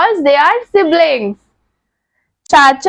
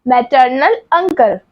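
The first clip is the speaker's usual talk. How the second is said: slow clear repeat; 3 semitones lower, slower than usual. Shown as a demonstration. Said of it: "क्या कहते हैं?".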